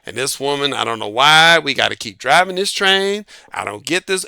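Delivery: put-on low, grumbled complaints of a tired old man; grumbling old train driver. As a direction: gripe under your breath like a worn-out driver. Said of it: "he talking about his wife".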